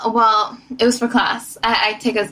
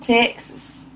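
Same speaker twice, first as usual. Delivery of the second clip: put-on country girl voice. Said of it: "What's your country girl?".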